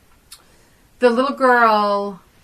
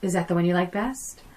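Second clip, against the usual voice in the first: retold cruelty; 3 semitones lower, 7 dB quieter than usual. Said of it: "little inklings of, you know, her cruelty".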